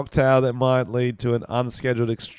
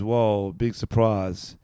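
sarcastic; much slower than usual. Acted. Mock surprise at obvious finding.

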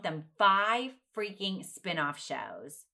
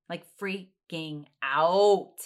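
freaking out; 5 dB louder, slower than usual. Real, not acted. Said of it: "I'm freaking out".

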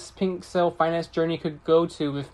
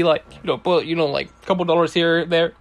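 hiccuping mid-sentence; talking through hiccups. Real, not acted. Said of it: "Sorry, I got the hiccups right now".

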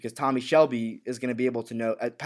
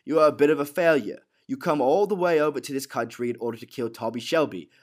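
acted, goading character quote; lightly voiced taunting gangster; Alfie; 3 dB louder than usual. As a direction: needle your visitor in a put-on character voice. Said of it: "And he goes".

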